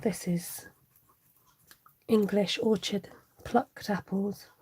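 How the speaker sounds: seduce them with each ingredient like a posh ad; M&S advert voice. Retold or imitated. Telling viewers her dinner, in the Marks and Spencer's ad voice. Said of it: "in the Marks and Spencer's voice".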